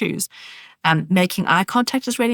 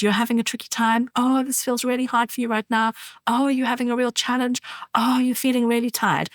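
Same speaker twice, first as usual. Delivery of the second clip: lightly voiced comforting, showing parents how; gentle soothing demo; 5 semitones higher than usual. Shown as a demonstration. Mother modelling phrases for parents, gently soothing. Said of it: "just practice with some phrases".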